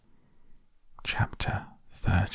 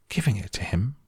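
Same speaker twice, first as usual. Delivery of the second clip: gasped; 3 semitones higher, faster than usual. Acted. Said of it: "gasped Grandpa Joe".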